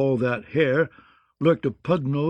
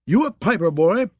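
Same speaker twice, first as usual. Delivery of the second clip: growling bluff knight, higher; growled; 7 semitones higher, 5 dB louder than usual. A narrator's reading. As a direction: growl it down at the boy. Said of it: "he growled".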